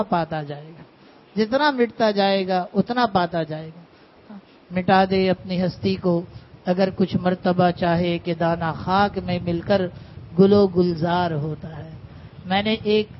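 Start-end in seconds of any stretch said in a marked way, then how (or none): 1.4-4.3 "جتنا مٹتا جائے گا اتنا پاتا جائے گا" repeated slowly, each word weighed; slow down and drive home "جتنا مٹتا جائے گا"; slow emphasis. Shown as a demonstration. Repeating the teacher's saying to students, slow and weighty. 4.7-11.9 slow recited couplet; poem recitation. Acted. Quoting a couplet to the gathering, slow recitation.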